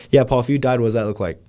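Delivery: casual run-through of a heavy question, no pause; offhand, unthinking. Shown as a demonstration. Salesman asking Paul about dying without thinking, offhand. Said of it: "you're not thinking about it".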